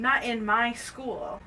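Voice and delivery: deliberate, hammed-up reprimand; retold yelling principal. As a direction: draw out "Not in my school" as a stern principal. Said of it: "yells at these kids".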